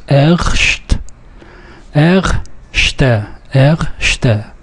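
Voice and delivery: erste split into two syllables, er-ste; syllable breakdown. Shown as a demonstration. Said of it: "the word erste has two syllables".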